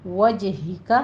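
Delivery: وَجْهِكَ with a bounced jim; وَجْهِكَ with the jim echoing; qalqala on jim. Shown as a demonstration. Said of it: "قلقلہ کرنا ہے".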